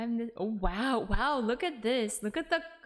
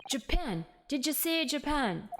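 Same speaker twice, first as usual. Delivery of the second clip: higher, incredulous Scottish governor; rough Scottish accent; 5 semitones higher than usual. Acted. Governor reacting to a visitor from Japan, rough Scottish accent. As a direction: pounce on it in an amateur Scottish accent. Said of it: "they write it as, like, a Scottish person".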